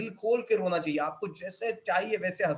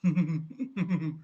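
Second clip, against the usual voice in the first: short, contained chuckle; own natural laugh; 3 semitones lower than usual. Shown as a demonstration. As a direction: laugh briefly as yourself. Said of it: "अगर मैं मेरी तरह हंसूंगा". (अपनी सामान्य छोटी हंसी)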